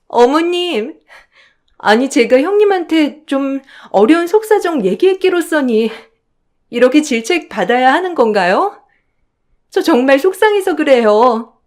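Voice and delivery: a touch of a put-upon whine; sister-in-law. Acted. Sister-in-law complains to mother.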